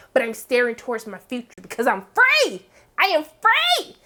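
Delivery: hammed-up heroine declaring freedom; mock June voice. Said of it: "does that June thing".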